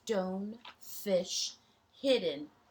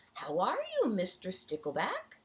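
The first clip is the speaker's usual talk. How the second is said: cheerful greeting; 3 semitones higher, 3 dB louder than usual. Acted. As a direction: call out a happy hello.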